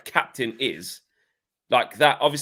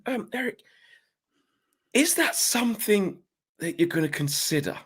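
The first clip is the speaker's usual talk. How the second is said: Simon Stone impression. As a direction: ask it like the BBC reporter. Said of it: "I'll do Simon Stone".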